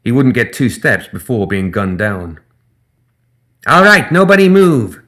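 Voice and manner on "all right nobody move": high, loud gremlin holdup call; gremlin cry. Acted. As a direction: bark the order waving a pistol. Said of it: "the gremlin cried".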